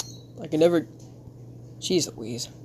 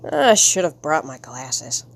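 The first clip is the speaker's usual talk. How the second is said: low, slow character voice; slow it down, pitched deep; 6 semitones lower than usual. Acted. Comic man missing his glasses, deep slow voice. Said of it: "Give him, him my deep voice".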